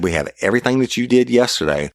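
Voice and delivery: retold angry yell. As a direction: pitch shoots up as he lays out evidence. Berating the suspect in interrogation.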